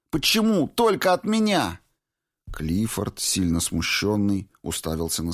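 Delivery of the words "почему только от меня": much higher and louder, passionate outcry; passionate cry. A narrator's reading. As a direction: Valentina demanding why only she is judged, passionate cry. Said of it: "страстно воскликнула она".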